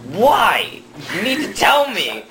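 high-pitched, pleading demand; exasperated dad. Acted. Dad demanding the ping pong secret, exasperated. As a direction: pitch jumps up in mock desperation.

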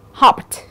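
hopped ending in a released t. Shown as a demonstration. Teacher demonstrates the ED rule, hopped ending on t. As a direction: finish hopped with a voiceless t. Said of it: "E D đó sẽ được phát âm là âm".

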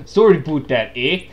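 loud mock Canadian accent. Imitating manager's accent for co-host, Canadian accent. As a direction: put on a clipped-vowel Canadian "eh". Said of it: "more like a Canadian accent".

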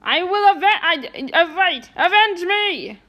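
overacted death scene. Ghost vowing revenge.

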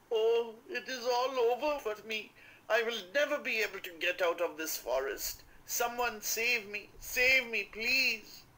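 high, loud wailing plea; crying despair. A narrator's reading. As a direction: wail it out, lost and desperate. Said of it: "He sobbed and beat his head, crying".

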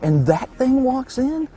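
high, slow, astonished question; incredulous. Real, not acted. Hunter amazed that the hog walked in, incredulous. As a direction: draw it out in disbelief, pitch soaring. Stunned by the hog's arrival.

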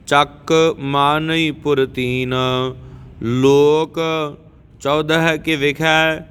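slow, measured chanting of verses; scripture recitation. Acted. Teacher reciting Jaap Sahib for students, measured chant. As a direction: recite each verse steadily and devoutly.

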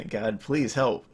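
retold plea to God with a rueful laugh; laugh, then beg half-jokingly for help; laughing mock plea.

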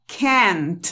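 CAN'T slowly, with open A and full T; wrong pronunciation demo. Shown as a demonstration. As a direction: show the mistaken open-vowel CAN'T. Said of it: "Que no se pronuncia así".

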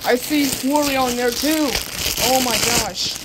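loud, thrilled discovery; excited exclamation. Real, not acted. Fan spotting Wario in the package too, excited exclamation. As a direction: exclaim it loudly with real excitement. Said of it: "I'm gonna scream of excitement".

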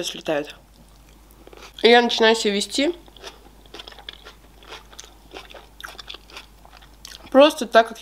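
chewing while talking; words muffled by food; mouth full of salad. Real, not acted. Seen 2: Takes a forkful at 3.3s, then keeps talking while chewing.

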